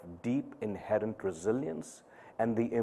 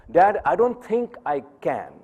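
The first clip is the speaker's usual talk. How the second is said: higher, louder voicing of his daughter; daughter's voice; 8 semitones higher, 8 dB louder than usual. Father voices his thirteen-year-old daughter, higher and louder. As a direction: lightly voice the shy girl.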